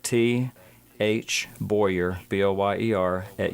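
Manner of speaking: spaced-out dictation, letter by letter; slow repeat. Real, not acted. Guest repeats his email for listeners, slow and careful. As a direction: repeat it carefully for someone writing it down. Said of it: "I'm gonna say this slow".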